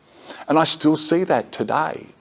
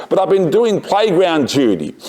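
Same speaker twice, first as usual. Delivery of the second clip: higher-pitched retold shout; shouting back; 6 semitones higher than usual. Teacher answering the office from the playground, mimed shouting back. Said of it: "and I shouted back".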